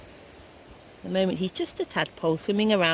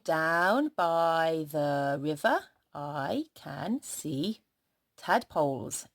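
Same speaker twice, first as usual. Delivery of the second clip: sentence read very slowly, word by word; slow dictation; much slower than usual. Shown as a demonstration. Teacher dictating the sentence to children, very slow. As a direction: spell it out slowly for the class. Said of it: "our sentence today".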